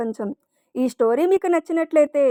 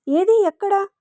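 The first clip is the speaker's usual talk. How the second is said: high, alarmed question; 7 semitones higher than usual. A narrator's reading. Husband asks his wife where the cockroach is, high and alarmed. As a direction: ask in a panic where it is. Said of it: "కంగారుగా".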